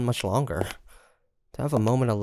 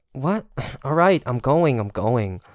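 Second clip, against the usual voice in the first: flustered outburst; 3 semitones higher, 6 dB louder than usual. Acted. Startled, then sent off to leave.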